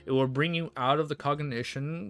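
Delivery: steady read-aloud novel narration; audiobook-style reading; story narration. Acted. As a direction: read the chapter out to the chat. Streamer reads novel aloud.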